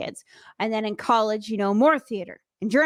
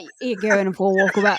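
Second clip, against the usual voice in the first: playful put-on Aussie accent; mock Australian accent; 3 semitones lower than usual. Co-hosts riffing on walkabout, playful mock Australian accent. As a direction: join in with a jokey Australian twang. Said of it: "talking in Australian accents nonstop".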